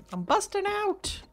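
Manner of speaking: excited. Real, not acted. Fleeing zombies.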